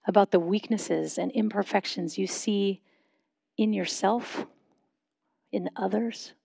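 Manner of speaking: measured prayerful questions, long pauses between phrases; slow guided reflection. Real, not acted. Pastor leading a congregation in silent reflection before God, slow and measured. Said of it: "I'll say them slowly".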